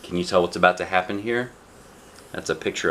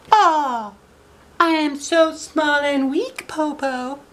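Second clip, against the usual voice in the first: very high, fake-helpless little girl; pretending weakness; slower than usual. Shang fakes weakness to fool the wolf, high and pitiful. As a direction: play small and weak, slow and pitiful. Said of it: "Shang pretended".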